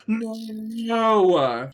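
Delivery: high, loud commanding shout. A narrator's reading. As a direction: stop them with one cry. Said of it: "he shouted".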